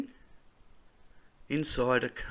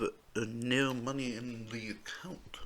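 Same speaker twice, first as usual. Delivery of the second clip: whispered aside; 7 dB quieter than usual. Real, not acted. Admitting he is broke.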